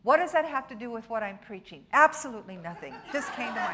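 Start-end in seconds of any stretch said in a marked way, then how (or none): 1.9-3.8 fast, laughing admission; preacher laughing at his own tangent. Real, not acted. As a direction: chuckle through it at yourself. Jokes about his own digression.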